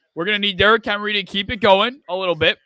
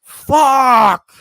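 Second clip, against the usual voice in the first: furious shout; 4 semitones higher, 13 dB louder than usual. Real, not acted. Parlay chance gone.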